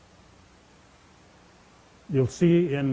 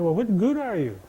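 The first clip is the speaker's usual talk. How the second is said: mild mock holler; 5 semitones higher than usual. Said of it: "Moon would holler down at Frog".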